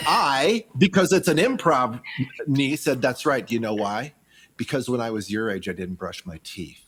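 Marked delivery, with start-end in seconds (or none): 3.0-6.8 low, hushed mock confession to a child; quiet deadpan reply. Improv uncle answering his niece at Easter, quiet deadpan. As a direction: sink softer and lower to the end.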